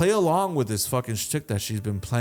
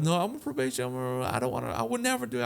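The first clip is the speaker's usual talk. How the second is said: raised, softer mock-panic protest; freaking out; 3 semitones higher, 5 dB quieter, faster than usual. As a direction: plead innocence in an imitated fluster. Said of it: "He's like, freaking the fuck".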